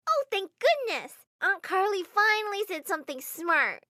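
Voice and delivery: put-on high, loud cheeky child; teasing little girl. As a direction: tease your aunt playfully. Niece teases aunt.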